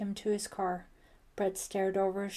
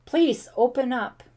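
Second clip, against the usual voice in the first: loud, raised cry for help; screamed; 4 semitones higher, 13 dB louder than usual. A narrator's reading. Ellie calling to whoever pounds the door, screamed. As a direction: yell desperately through the door. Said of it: "Ellie screamed".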